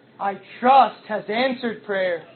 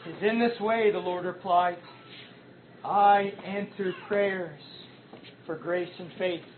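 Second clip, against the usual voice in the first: soft voice of the Lord; 5 semitones lower, 8 dB quieter than usual. Acted. The Lord replies to the sinner.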